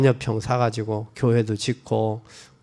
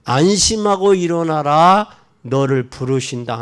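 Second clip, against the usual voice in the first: reassuring call; 5 dB louder than usual. Retold or imitated. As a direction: call the blind man to come. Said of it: "부르며 이르되". (소경을 안심시키며 부르는 목소리)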